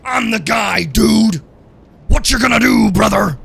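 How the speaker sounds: loud, high shouted wrestler bravado, dude and brother; Hulk Hogan. Retold or imitated. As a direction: bellow it like a showboating wrestler. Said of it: "He's like".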